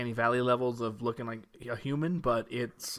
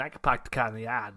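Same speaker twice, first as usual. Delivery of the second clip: lightly done Boston accent, dropped R's; 3 semitones lower than usual. Shown as a demonstration. Cohost showing off his Boston accent when asked, casual Boston accent. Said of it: "How, how, how's your Boston accent".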